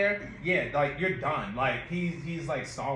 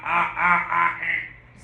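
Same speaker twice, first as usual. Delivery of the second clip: shocked gasps demo; 9 dB louder, much slower than usual. Shown as a demonstration. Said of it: "Like, ah".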